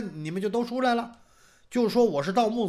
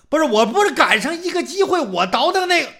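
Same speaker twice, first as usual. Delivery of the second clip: protesting; 8 semitones higher, 7 dB louder than usual. Acted. Accused protests to magistrate.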